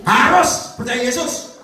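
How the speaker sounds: slow, drawn-out and high; slow preaching call to believe; solemn exhortation. Acted. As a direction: proclaim it word by word.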